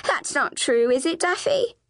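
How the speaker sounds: high, pleading question rising at the end; anxious appeal. Acted. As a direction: beg your sister to deny it. Flavia appeals to other sister.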